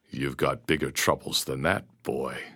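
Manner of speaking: a hint of a pirate's threat; menacing pirate.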